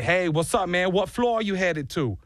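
a weak, lightly voiced Jersey accent; bad Jersey accent. Stranger in the elevator asks his floor, bad Jersey accent. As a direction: try a New Jersey accent and miss. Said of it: "that was probably a bad Jersey accent".

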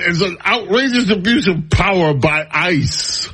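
lightly hammed-up outrage; mock outrage. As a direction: read it as mock indignation. Resumes mock-outraged reading of statement.

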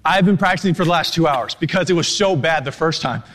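winded, still recovering from the run; out of breath. Real, not acted. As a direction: push words out between breaths. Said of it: "wow, I'm really that tired".

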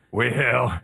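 low Southern drawl; Billy Payne. Acted. Host trying out his impression for colleagues, Southern drawl. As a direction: drop down into a drawn-out Southern voice. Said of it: "Billy Payne".

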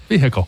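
Vehicle as "VEE-hick-ul" after a laugh; sounded H. Shown as a demonstration. Co-host plays along with teasing, Vehicle with the H pronounced. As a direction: say Vehicle with a clear H in the middle. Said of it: "how you say the word vehicle".

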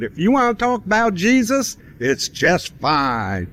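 put-on voice that starts way up high and slows right down; imitating the rock band. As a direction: mimic their phrasing, starting high, stretching the last words. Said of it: "that's the way they put it".

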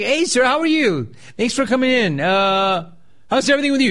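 overly friendly fake cheer aimed at a customer; mock chirpy clerk. Radio host mocking a store clerk's greeting, high chirpy voice. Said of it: "If somebody's like".

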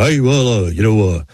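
lightly voiced rambling racer, hard to understand; a hint of slurred, mumbly racer impression; Sterling Marlin. Racer giving his Panthers pick on camera, lightly imitated garble. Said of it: "Lord, you need a translator".

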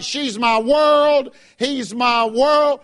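slow, sneering mimicry; mocking quote. Preacher mocks worldly parents' doting, slow sneering mimicry. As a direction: drag it out to ridicule them. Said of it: "they say stupid things like".

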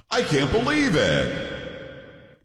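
slow, drawn-out sarcastic "I can't believe it". Shown as a demonstration. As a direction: drag out believe with mock disbelief. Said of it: "Being very sarcastic".

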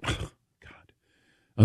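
breathy exasperated whisper; whispered oh God. Retold or imitated. Head pro at the club, whispering in exasperation. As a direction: sigh it out under your breath. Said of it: "And he goes".

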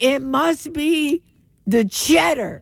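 lightly voiced slow, deliberate diagnosis; a hint of a ponderous doctor; mock doctor. Doctor announces a cheese diagnosis, mock-solemn.

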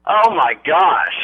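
slow, drawn-out disbelief; real stunned groan; stunned dismay. Real, not acted. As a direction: let it sink in, slowly. Stunned by the prank news.

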